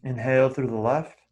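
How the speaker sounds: soft, brief cues between long silences; quietly pace each breath, a touch of meditation voice; guided breathing. Real, not acted. Teacher counting students through nostril breathing, soft meditation guiding.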